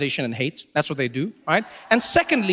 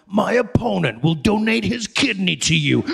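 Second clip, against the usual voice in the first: ominous political ad narrator, lightly done; attack ad voice. Retold or imitated. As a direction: read it like a sinister campaign ad. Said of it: "you can say anything in that voice".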